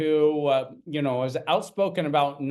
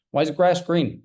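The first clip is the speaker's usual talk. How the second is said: put-on curious child; 3 semitones higher, 4 dB louder than usual. Child questioning dad, acted scene.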